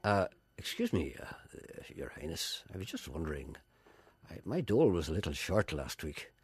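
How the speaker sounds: lightly voiced humble poet, hesitant start; Seamus Heaney. Poet asking the Queen for money, understated impression. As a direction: murmur a deferential request, a little softly. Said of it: "what Seamus Heaney talked to the Queen about".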